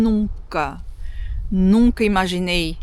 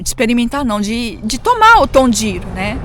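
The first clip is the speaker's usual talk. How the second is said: ordinary delivery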